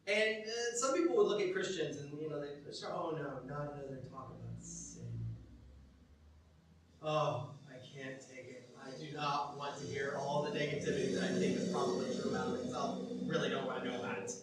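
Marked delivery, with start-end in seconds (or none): 2.9-14.3 low, subdued grumble of avoidance; mildly mock reluctant churchgoer, lower and softer; weary dread. Preacher voices churchgoers dreading another sin talk, weary dread.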